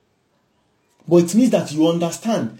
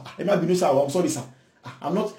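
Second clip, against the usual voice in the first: softer, lower, timid apology; mock meek apology; 3 semitones lower, 8 dB quieter, faster than usual. A listener mocking a forced apology, softly and timidly. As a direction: cower as you apologize. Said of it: "mock meek apology".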